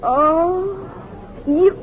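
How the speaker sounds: high, startled question; sudden dawning surprise; surprised. Acted. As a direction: realise who you are talking to. She realises who he is.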